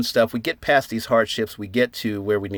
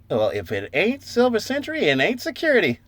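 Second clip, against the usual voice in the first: amazed exclamation; 9 semitones higher than usual. Retold or imitated. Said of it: "we're like".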